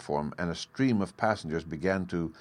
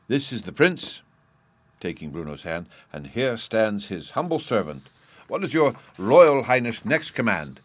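mock humble servant; 3 semitones higher, 5 dB louder than usual. The speaker plays humble servant.

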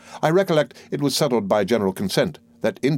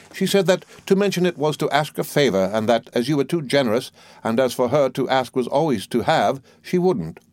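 a hint of a fussy, self-important old lady, pitched higher; lightly voiced old mother-in-law; 4 semitones higher than usual. The old soldier pressing her point on the doctor, lightly voiced. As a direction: play the bossy mother holding forth, higher.

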